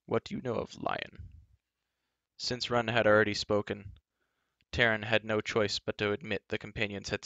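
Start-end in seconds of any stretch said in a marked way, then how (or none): 0.1-1.3 hushed, urgent asking; urgent giant question. Acted. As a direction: press him for an answer. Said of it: "Glue quickly asked".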